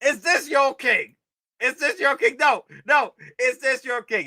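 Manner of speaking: high, loud mocking challenge; mock Loki taunt. Streamer playing out Loki's taunt, high and loud. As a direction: throw the line out like a villain.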